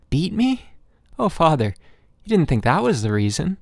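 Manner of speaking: put-on a small boy horrified at the idea; shocked boy. Boy shocked at father's words.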